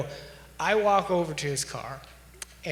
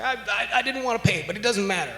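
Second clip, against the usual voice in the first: imitating the upset man; 6 semitones higher, faster than usual. Upset man explains, voiced by teller.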